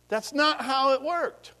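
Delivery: unvoiced, slow whisper. Real, not acted. Preacher whispers aside to the congregation. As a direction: lean in and whisper it.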